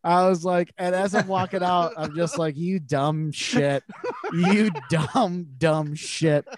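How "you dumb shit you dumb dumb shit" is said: laughing insult. Real, not acted. Laughing at herself walking out.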